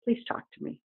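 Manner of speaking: soft, breathy begging; whispered plea to a hurt spirit; pleading whisper. Retold or imitated. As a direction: coax a sulking spirit gently. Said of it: "you just have to say".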